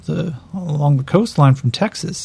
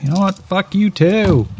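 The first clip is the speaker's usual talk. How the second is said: defiant snarl; 8 semitones higher than usual. Acted. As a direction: throw it back in his face. Gator snarls back at Elias.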